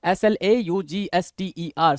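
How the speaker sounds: letters spaced out while writing; slow spelling out. Shown as a demonstration. Teacher writing slaughter on the board, spelling it slowly. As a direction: spell it as you write it on the board. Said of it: "यहां मैं लिख दे रहा हूं".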